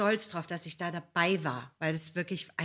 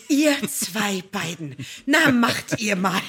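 mock scolding, louder and slow; imitating Jens; 11 dB louder, slower than usual. Jens catches the two sharing a plate, mock scolding. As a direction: hands on hips, mock disapproval. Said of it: "in seiner typischen Jens-Manier".

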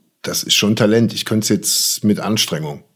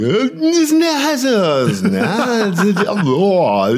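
eerie backwards voice; 8 semitones higher, much slower than usual. Retold or imitated. Mimics eerie backwards sound.

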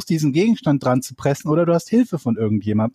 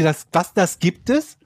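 amazed; 2 semitones higher, slower than usual. Retold or imitated. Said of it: "Ich dachte mir".

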